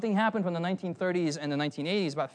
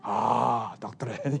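lower, mock-reverent German accent; weird German accent; 5 semitones lower, much slower than usual. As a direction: sigh over it in a fake German voice.

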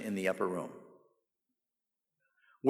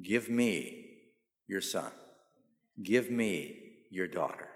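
tender plea; 5 semitones lower, 7 dB quieter, much slower than usual. Acted. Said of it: "What does God say to you and me?".

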